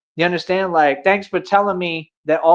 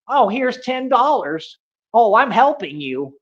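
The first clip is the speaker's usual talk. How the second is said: slow, higher, sugary fake offer; mock fake kindness; 5 semitones higher, slower than usual. Mimicking people who pretend to help, mock-sweet and slow. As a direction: dangle it like a bribe, slowly.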